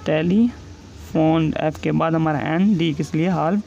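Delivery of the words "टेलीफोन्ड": टेलीफोन्ड drawn out very slowly, syllable by syllable; teacher slowly dictating टेलीफोन्ड; slow dictation. Shown as a demonstration. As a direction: stretch टेलीफोन्ड so students can write it. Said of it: "next है टेलीफोन्ड".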